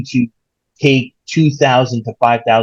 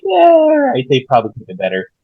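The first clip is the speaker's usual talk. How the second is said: half-hearted approval; 3 semitones higher, faster than usual. Retold or imitated. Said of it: "we were like".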